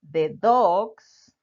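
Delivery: "the" said as a short "de" before "dogs"; the before a consonant. Shown as a demonstration. Teacher showing the before a consonant, short "de". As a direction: drop "the" quickly into "de dogs". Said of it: "debes pronunciarla como te coloqué aquí".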